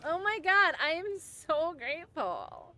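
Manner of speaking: hammed-up overflowing gratitude; mock gratitude. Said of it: "and be very grateful".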